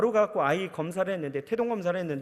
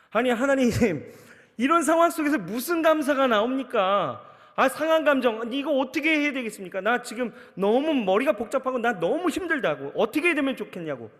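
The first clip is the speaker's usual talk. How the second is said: louder and higher, pleading with God; husband venting to God in the ambulance, loud and pleading; desperate protest; 4 semitones higher, 4 dB louder than usual. Retold or imitated. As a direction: cry out to God in frustration. Complaining to God after the crash.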